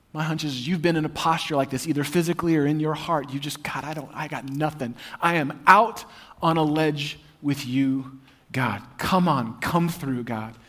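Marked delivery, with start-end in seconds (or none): 3.6-10.5 softer, pleading then pushing; a hushed, insistent plea; desperate demanding prayer. Acted. Listener on their knees praying, desperate and hushed. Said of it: "desperate, if not sort of demanding".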